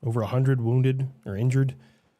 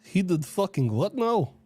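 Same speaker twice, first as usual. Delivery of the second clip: put-on Russian accent. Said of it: "I wanna hear them all the time".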